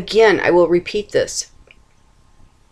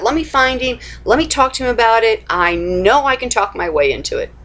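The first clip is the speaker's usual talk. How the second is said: anxious searching; 4 semitones higher than usual. Retold or imitated. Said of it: "But I was thinking".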